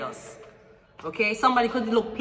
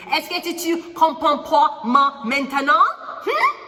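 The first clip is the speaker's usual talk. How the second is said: teasing challenge; 6 semitones higher, 3 dB louder than usual. Acted. Teasing viewers in French.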